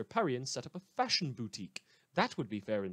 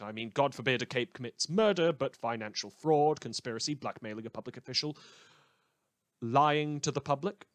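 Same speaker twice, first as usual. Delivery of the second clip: louder and louder, spitting out each crime; indignant rant; 5 dB louder than usual. Acted. News host to listeners, getting louder and indignant about unpunished crimes. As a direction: build the outrage item by item, slowing on the last. Anchor listing ignored crimes.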